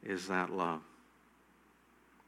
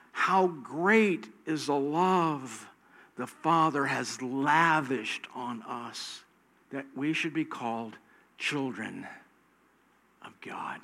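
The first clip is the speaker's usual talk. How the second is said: 1 John 3:1 reading; slower than usual. Real, not acted. Reads scripture slowly.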